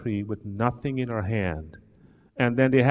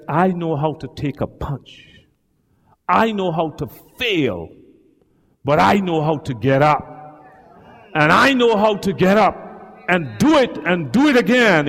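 rising proud declaration; 2 semitones higher, 5 dB louder than usual. Retold or imitated. Son's proud declaration voiced.

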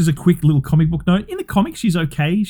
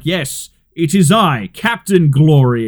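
slow, booming announcement; grand hero voice; much slower than usual. Retold or imitated. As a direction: declare yourself like a pompous hero.

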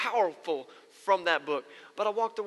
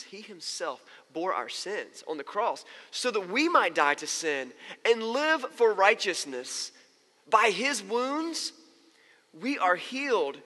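slow, emphatic proclamation; scripture reading; slower than usual. Acted. Pastor reading Peter's words about Jesus, scripture proclamation. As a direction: proclaim the verse slowly, leaning on key words.

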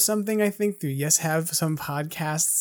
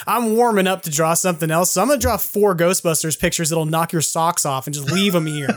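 breezy artist; 3 semitones higher, 4 dB louder than usual. Retold or imitated. Imitates artist casually announcing drawings.

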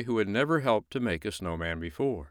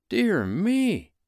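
put-on high little boy voice; a young boy, concerned; 12 semitones higher, 5 dB louder than usual.

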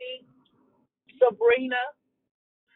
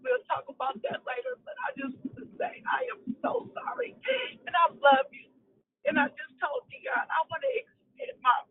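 crying apology. Real, not acted. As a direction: pour out the apology through real tears. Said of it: "Got me in tears".

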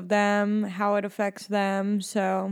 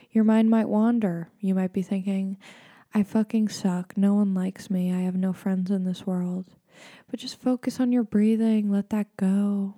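measured mock meditation guide; deadpan serene narration. Shown as a demonstration. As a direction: calmly lead listeners back to the breath. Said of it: "I'm gonna use my meditation voice".

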